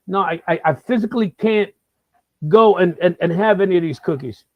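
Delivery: lightly voiced friend refusing cookies; imitating friend Nick. Comic recalls friend refusing cookies, light imitation. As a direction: play Nick's half-hearted refusal. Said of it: "as my friend Nick Papagiorgio used to say".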